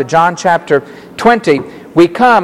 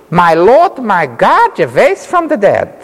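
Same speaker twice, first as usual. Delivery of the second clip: mock exclamation; 3 semitones higher than usual. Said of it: "giving an exclamation".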